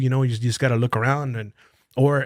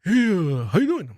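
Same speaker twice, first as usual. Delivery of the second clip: raised, hesitant mock check-in; tentative coworker voice, pitched up; imitating coworker's check-in; 5 semitones higher than usual. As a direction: imitate a coworker asking too carefully. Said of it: "how that fool fucking asked me".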